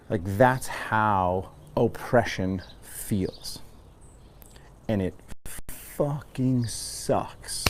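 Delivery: hushed. Real, not acted. Venting anger at oppression.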